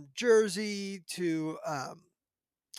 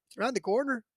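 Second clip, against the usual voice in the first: quick mock-Irish reply, slightly raised; bad Irish accent; 4 semitones higher, faster than usual. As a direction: attempt a clumsy Irish accent. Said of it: "that's my worst Irish accent".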